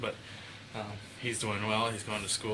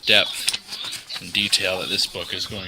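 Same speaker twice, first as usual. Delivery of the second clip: mock dramatic reading; 2 semitones lower, 5 dB louder than usual. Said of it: "I was having fun reading that".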